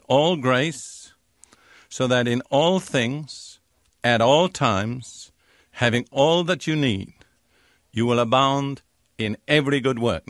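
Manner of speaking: every all leaned on, slowed and lifted; stress on all. Shown as a demonstration. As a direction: drive home each all. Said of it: "and the word all".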